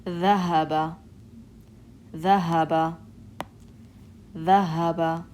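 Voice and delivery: ذهب with a clear dh and breathy h; test word ذهب. Shown as a demonstration. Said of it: "Right here".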